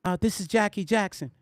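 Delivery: a hint of a gentle phone voice; Jackie Jackson. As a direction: mildly imitate a mild-mannered caller. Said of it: "This is exactly how he sounded".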